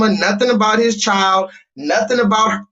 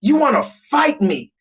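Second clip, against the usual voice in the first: mock aggressive dude; 6 semitones higher, slower than usual. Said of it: "He literally said that".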